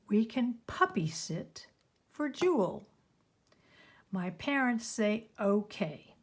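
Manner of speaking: put-on measured, expressive storytelling to children; story read-aloud. A narrator's reading. Nancy gets a spectacular puppy-sitting idea, read aloud to children. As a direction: read it out phrase by phrase, with pauses.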